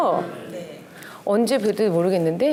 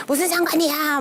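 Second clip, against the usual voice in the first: retold angry yell; 6 semitones higher than usual. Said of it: "저는 막 소리 지르고".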